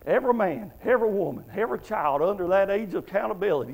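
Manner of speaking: careful, separated restart; deliberate delivery after a tongue-tie; slowed down. Real, not acted. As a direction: set out "Every man" and "every woman" one at a time. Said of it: "let me slow down".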